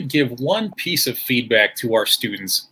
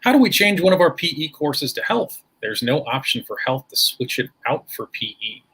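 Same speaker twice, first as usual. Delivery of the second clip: game show voice; 3 semitones higher than usual. Pretend. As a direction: read it out like a quiz host. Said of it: "I'd like to use my game show voice for these".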